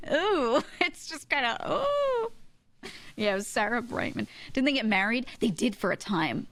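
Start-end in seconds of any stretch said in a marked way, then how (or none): 0.1-2.3 high, drawn-out cringing ooh; disgusted ooh. Real, not acted. Telling viewers it gives her the ick, cringing ooh. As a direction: squirm at how creepy it is.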